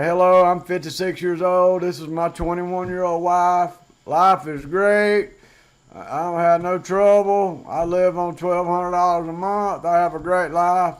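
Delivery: lightly hamming up the happy expat line; mocking other vloggers. Vlogger mocking other expat YouTubers, mild mock cheer. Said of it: "I could do like these other guys and say".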